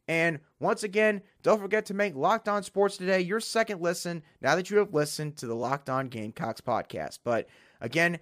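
stuffy nasal voice from allergies. Real, not acted. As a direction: talk through a blocked nose. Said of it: "Sorry for my nasally voice".

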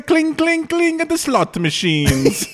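Vegas lounge announcer. Pretend. Mock Vegas lounge act announcement.

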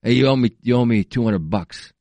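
lightly imitated movie tough-guy accent; Hardy. Podcaster quoting a fight film, mock muddled accent. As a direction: mumble it like a hammered fighter's accent. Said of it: "What accent is he doing in that".

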